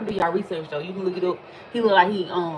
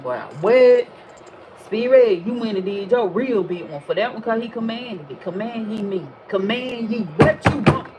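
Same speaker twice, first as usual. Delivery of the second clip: booming spirit voice; 4 dB louder than usual. Pretend. Imagined Spirit voice commanding.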